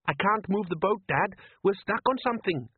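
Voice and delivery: put-on high young boy's voice, uneasy; a worried son asking his dad; boy Les. A narrator's reading. Son Les doubting his father at sea, high uneasy boy voice.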